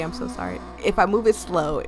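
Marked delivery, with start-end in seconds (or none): 0.0-0.6 low creaking door voice; creaky voice. Shown as a demonstration. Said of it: "I'm gonna do the creaky".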